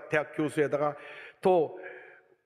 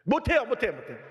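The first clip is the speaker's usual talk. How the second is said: protesting refusal; 5 semitones higher than usual. Retold or imitated. Acted refusal answering God.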